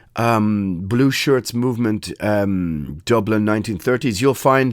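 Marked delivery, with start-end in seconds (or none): none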